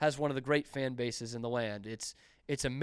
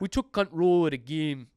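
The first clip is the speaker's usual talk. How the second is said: loud put-on Geordie accent, "control" pronounced like "cunt-rol"; 3 semitones higher, 6 dB louder than usual. Hearing how someone with a Geordie accent said 'control', a listener jokes in a Geordie accent. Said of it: "with the Geordie accent".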